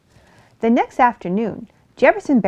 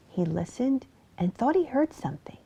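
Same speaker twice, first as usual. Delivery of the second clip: hushed narration whisper; storyteller whispering a suspenseful moment; 5 semitones higher, 5 dB quieter than usual. A narrator's reading.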